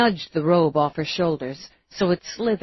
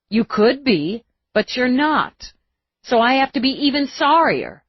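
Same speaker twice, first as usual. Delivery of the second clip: earnest; 7 semitones higher, 4 dB louder than usual. Acted. Eve earnest rush.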